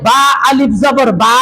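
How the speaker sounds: "বা আলিফ জবর বা" with the final "বা" held long; stretched vowel. Shown as a demonstration. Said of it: "তাহলে কি টানবো না আমরা". ("বা আলিফ জবর বা"-র শেষের "বা" টেনে)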